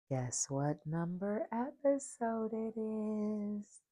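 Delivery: giddy. Retold or imitated. Spirit guide teasing her about the episode, giddy and slow. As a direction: drag it out like a playful secret. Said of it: "she got all giddy".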